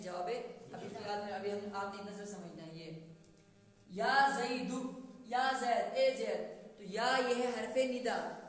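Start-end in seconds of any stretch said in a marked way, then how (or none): 3.9-6.7 louder repeated calls of یا زید; calling out. Shown as a demonstration. Teacher demonstrating calling Zaid, loud. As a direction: call Zaid again and again. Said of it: "آواز لگائی".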